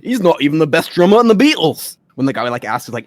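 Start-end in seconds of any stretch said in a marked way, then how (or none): 0.0-2.0 a musician's quip. Retold or imitated. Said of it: "the accent I go for is the one".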